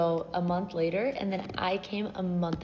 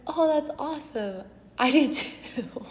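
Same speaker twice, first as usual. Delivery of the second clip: high, sheepish, nearly tearful; embarrassed reply; 6 semitones higher than usual. Retold or imitated. Newcomer answers the woman who speaks English, sheepish and close to tears. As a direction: play it off while cringing inside.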